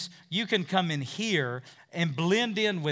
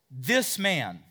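a hint of scorn on "This man"; derogatory; 6 dB louder than usual. Shown as a demonstration. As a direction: say "This man" with mild contempt. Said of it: "it's very derogatory".

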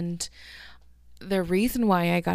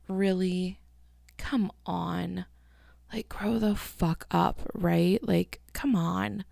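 sighed, breathy disbelief; retold fed-up muttering, drawn out at the end; exasperated reaction; slower than usual. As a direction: let the words out on a weary exhale. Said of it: "And I just was like".

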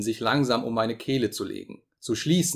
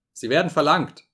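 loud, raised announcement; booming; 5 semitones higher, 5 dB louder than usual. A narrator's reading. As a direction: boom it across the hall. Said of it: "Challengers dröhnende Stimme".

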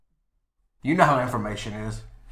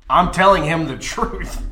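laughing; 6 semitones higher, 6 dB louder than usual. Real, not acted. Laughs mid-line.

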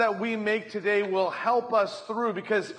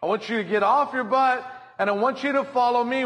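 voicing God's call; 6 semitones higher than usual. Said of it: "he's saying".

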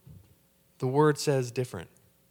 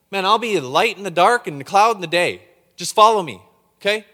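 voice of God; 5 semitones higher, 6 dB louder than usual. Acted. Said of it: "He said".

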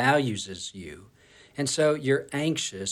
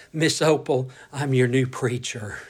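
nervous stutter; 4 dB louder than usual. Retold or imitated. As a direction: stammer it out nervously. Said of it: "I nervously stuttered".

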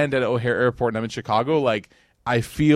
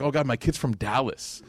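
laughing mock lament; 4 dB quieter than usual. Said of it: "I'm like".

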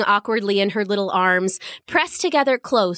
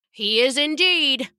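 smiling guard; 3 semitones higher than usual. Acted.

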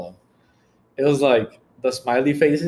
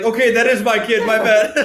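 higher voice, half laughing; mock backing down; 8 semitones higher, 5 dB louder than usual. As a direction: imitate a hasty admission. Acting out mom backing down.

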